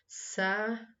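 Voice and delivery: "Saída" split as sa-í-da; syllable by syllable. Shown as a demonstration. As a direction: pause between each syllable of "Saída". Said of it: "separe-as em sílabas". ("Saída" separado em sa-í-da)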